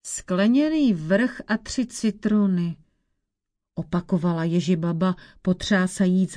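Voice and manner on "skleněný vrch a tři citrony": put-on old witch. Old witch repeats thoughtfully.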